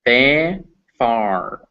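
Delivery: farm with the ar sound held and stretched; R colored vowel. Shown as a demonstration. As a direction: draw out the ar in farm. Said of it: "it becomes farm".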